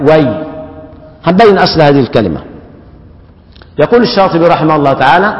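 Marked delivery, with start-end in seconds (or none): 0.0-0.4 وي ending on the y glide; short demo of وي; stopping on ya. Shown as a demonstration. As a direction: stop at وي. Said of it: "وقف الكسائي على الياء".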